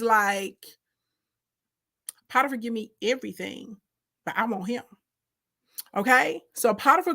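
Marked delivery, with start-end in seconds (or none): 2.3-4.8 scheming whisper. Retold or imitated. Potiphar's wife confessing her desire, quiet. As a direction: murmur it like a secret plan.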